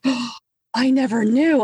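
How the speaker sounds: high-pitched imitated astonishment; hammed-up innocent surprise; mock shock. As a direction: play the clueless friend, gasping first. Imitating clueless friends hearing amends.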